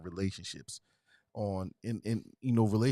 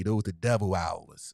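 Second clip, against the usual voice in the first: grandmother's saying; 3 semitones lower, slower than usual. Retold or imitated. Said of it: "what our grandmother used to say".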